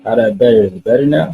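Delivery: bad mic with an echo; echoey mic. Real, not acted. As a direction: voice with room echo. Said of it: "now it sounds a little worse 'cause you got, like, an echo".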